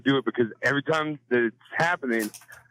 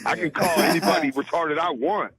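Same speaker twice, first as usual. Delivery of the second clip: higher, scornful defiant retort; defiant comeback; 4 semitones higher than usual. Pretend. Man defending his slur in a mock argument, defiant and scornful. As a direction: sneer it back at the scold.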